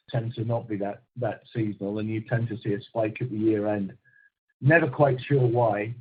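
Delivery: ordinary talk, nothing marked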